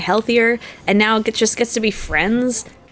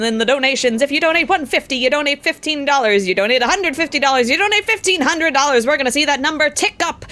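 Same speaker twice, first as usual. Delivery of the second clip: auctioneer voice; 2 semitones higher than usual. Acted. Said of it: "a auctioneer and then a racehorse commentator".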